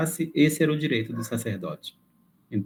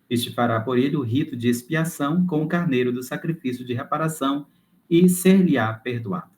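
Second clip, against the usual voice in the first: measured, formal reading aloud; read-aloud lesson voice; scripture reading. Acted. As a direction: read the passage out clearly and solemnly. Reads scripture text aloud.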